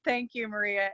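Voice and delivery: softly moved. Real, not acted. Thanking her dear friend Maria, quiet and moved. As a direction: say it gently while holding back tears. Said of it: "you're gonna make me cry".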